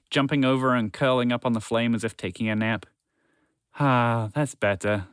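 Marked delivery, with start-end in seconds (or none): 3.8-5.1 sighed. Acted. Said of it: "spaceship sighed".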